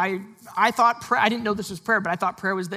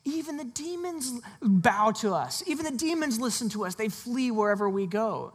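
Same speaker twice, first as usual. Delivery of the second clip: boastful disciples; 3 semitones higher than usual. Retold or imitated. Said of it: "they're like".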